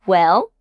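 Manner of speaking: "Well?" sinking low, then curving up; musing dip-and-rise "Well?"; thinking out loud. Shown as a demonstration. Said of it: "like you are thinking out loud".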